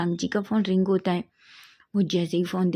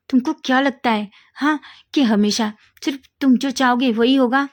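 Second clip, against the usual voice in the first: louder, higher furious challenge; angry; 4 semitones higher, 5 dB louder than usual. A narrator's reading. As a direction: fire it back at him, louder and higher. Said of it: "गुस्से में".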